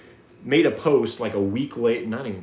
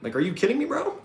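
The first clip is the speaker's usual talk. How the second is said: exasperated; 10 semitones higher, 5 dB louder than usual. Real, not acted. Ranting in disbelief.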